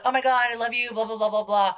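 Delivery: high, run-on mock gushing. New York girls greeting each other, mock gushing. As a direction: imitate gushy girls babbling away.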